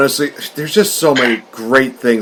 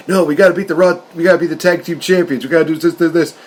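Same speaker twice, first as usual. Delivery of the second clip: higher-pitched, insistent mock pleading; Seth, mock urging; 4 semitones higher, faster than usual. Tag partner urging Braun toward the champions, mock insistent. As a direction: rattle it off like a pushy teammate.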